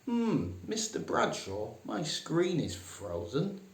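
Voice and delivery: high, fussy polite complaint; mock-refined plea to the boss; hammed-up posh employee; prissy office worker. Shown as a demonstration. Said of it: "don't say".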